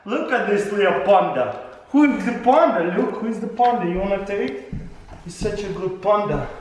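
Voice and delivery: high, bright dog-praise voice; squeaky praising a dog. Real, not acted. Owner baby-talking to his dog.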